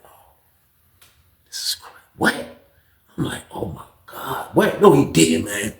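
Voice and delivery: soft unvoiced whisper; whispered shock. Narrator reacting to the news, whispered shock. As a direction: breathe it out in shock.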